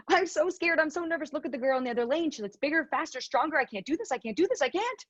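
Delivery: retold panicked thoughts. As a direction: relive the nerves in the blocks. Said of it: "all I was thinking was".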